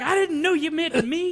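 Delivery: therapist's reply. Retold or imitated. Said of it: "She's like".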